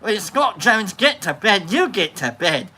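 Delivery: put-on makeshift British accent. Streamer telling viewers to get to bed, British accent. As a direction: slip into an amateur British accent. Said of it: "it now became a British accent".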